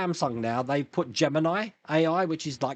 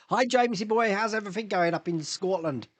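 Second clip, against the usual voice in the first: badly faked Scottish accent, pitched up; terrible Scottish accent; 3 semitones higher than usual. Streamer greets a viewer up in Scotland, bad Scottish accent. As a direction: have a poor go at a Scottish accent. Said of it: "That was my terrible Scotland accent".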